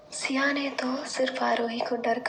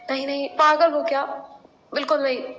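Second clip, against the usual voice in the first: scared refusal; 4 semitones higher, 3 dB louder, faster than usual. Acted. Frightened refusal.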